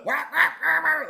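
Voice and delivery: high quacks through laughter; laughing duck impression; annoyed duck. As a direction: quack like a cross duck while giggling. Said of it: "that's a very annoyed duck".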